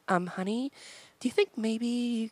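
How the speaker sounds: Allison voice. Retold or imitated. Host voices his wife Allison as a timid valley girl. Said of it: "if I were to do an Allison voice".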